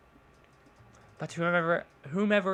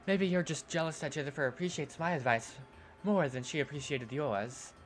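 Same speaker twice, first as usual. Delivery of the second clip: soft cutting voice; 3 semitones lower, 3 dB quieter than usual. Acted. Yuri voice.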